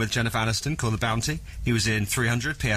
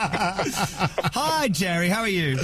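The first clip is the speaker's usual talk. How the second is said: excited; 5 semitones higher, much slower than usual. Real, not acted. Star-struck host greeting caller.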